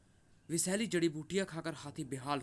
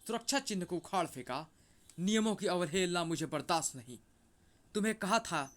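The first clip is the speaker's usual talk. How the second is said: raised, forceful angry rebuke; enraged scolding; 2 semitones higher than usual. Acted. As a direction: scold like an outraged guardian whose rules were broken. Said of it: "भेड़िया आपे में नहीं रहा था". (गुस्से भरी फटकार)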